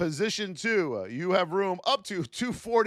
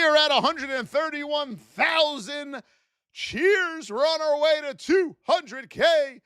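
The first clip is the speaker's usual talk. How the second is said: excited shout; 8 semitones higher than usual. Real, not acted. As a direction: cheer it out to the viewers. Stream cheers the account milestone.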